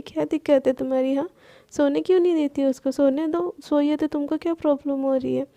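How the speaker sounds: quick, mildly angry snap. Acted. Palak scolds Manya for waking Sana, mildly angry. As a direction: rattle it off, a touch annoyed. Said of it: "वो गुस्से में मान्या को बोलती है".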